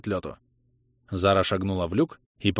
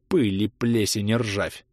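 muttered curse; slower than usual. Acted. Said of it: "выругалась Гвинет".

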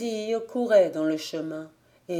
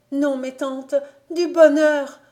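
put-on higher, eager girl's voice; 7 semitones higher, 7 dB louder than usual. Rousille stopping her aunt from undressing, higher and eager. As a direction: hurry in with news. Girl answers joyfully.

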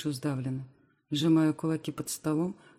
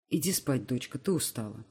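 softer, lower, tender uncle; 4 semitones lower, 3 dB quieter than usual. Acted. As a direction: gently send her off to bed. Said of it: "говорит ласково".

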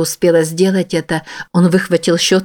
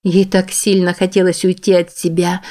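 ordinary talk

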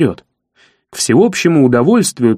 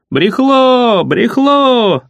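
high mocking chant of a jeering crowd; 7 semitones higher, much slower than usual. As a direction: jeer it out like a rowdy crowd. The crowd jeers.

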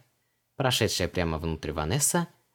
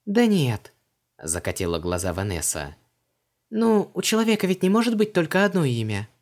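put-on much higher, lively young woman; Vanessa's voice; 8 semitones higher, 4 dB louder than usual. A narrator's reading. Vanessa asks Creole about his customs, puzzled. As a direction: pitch her up, brisk and puzzled.

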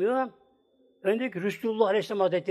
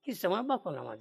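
softer, let-down reproach; subdued retelling; 7 dB quieter, faster than usual. Retold or imitated. Wife tells husband he ignored her, subdued retelling. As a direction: drop the voice after the retold plea.

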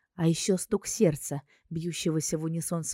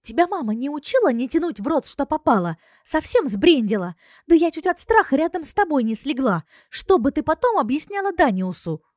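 higher, louder, fast furious scolding; scolding yell; 9 semitones higher, 6 dB louder than usual. Acted. A friend yells at the heroine for nearly dying, loud and fast. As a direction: yell at her friend for scaring everyone. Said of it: "а потом как заорёт".

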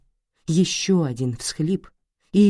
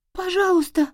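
put-on much higher, small frightened girl begging; child's plea. Little girl pleading.

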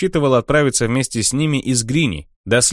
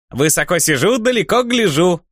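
high squeaky wooden voice; a small enchanted log calling out, high and squeaky; talking log; 8 semitones higher than usual. Acted. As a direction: pipe it up like a cheeky little log. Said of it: "отозвалась деревяшка".

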